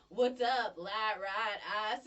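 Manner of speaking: broad Southern vowels; Southern drawl on single words; Southern accent demo. Shown as a demonstration. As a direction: show off the Southern twang on each word. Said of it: "we really sound Southern to".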